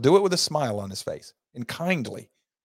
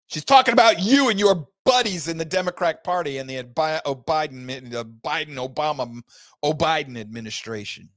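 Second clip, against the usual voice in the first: heated rant; 5 semitones higher, 5 dB louder than usual. Real, not acted. Host rails at Democrats.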